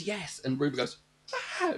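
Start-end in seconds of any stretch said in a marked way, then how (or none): 0.0-0.4 high but soft mock yell; retold scream. The apprentice after everything, mock screaming. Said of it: "the apprentice just screams". 1.6-1.7 short imitated screech; mock screech. Ruby reacting to the apprentice's scream, mock screeching. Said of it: "Like, screeches".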